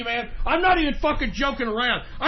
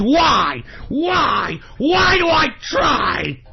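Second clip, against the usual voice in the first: despairing shout; much slower than usual. Real, not acted. Exasperated outburst.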